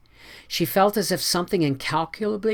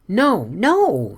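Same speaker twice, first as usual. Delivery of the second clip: quick, eager denial, higher; 6 semitones higher, 5 dB louder than usual. A narrator's reading. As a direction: rush to reassure him. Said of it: "said Anne eagerly".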